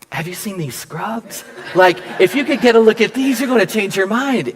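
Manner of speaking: a giggly plea about the scrubs; laughing. Retold or imitated. Joking inner thought about scrubs.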